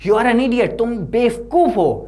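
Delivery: teacher shouting at Sebi, hammed-up fury; acted angry shout. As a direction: play the furious teacher. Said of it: "he shouted".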